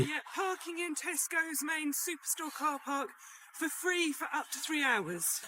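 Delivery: soft, presenter-style info read; travel vlog voice. Acted. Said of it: "trying to do my, like, travel vlog".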